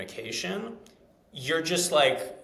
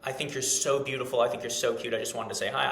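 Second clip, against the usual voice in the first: lame delivery. Shown as a demonstration. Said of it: "I sound fucking lame".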